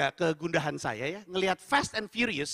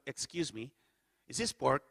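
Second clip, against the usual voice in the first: low, softer polite query; polite cautious question; 6 semitones lower, 6 dB quieter than usual. Retold or imitated. Muslim diner asks hotel staff about the sausage, low and polite. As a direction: ask discreetly, keep it low. First timid ask to staff.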